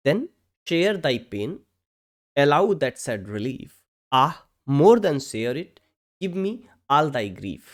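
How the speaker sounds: slow, measured reading of verse; poem reading. Acted. Teacher reading a Pope couplet to students, slow poem reading. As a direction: read each phrase slowly, pausing between.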